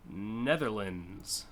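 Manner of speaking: Netherlands drawn out very slowly as NETH-er-lunz; odd pronunciation. Shown as a demonstration. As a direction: slowly stretch out Netherlands, swallowing the d. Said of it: "none of those things are like what I said".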